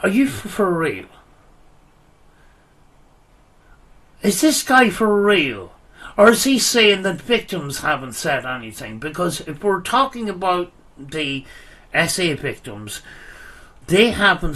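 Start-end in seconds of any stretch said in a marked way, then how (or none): 0.0-8.4 loud, disbelieving, pitched up; can't believe what he's hearing; incredulous outburst. Real, not acted. Incredulous reaction in argument.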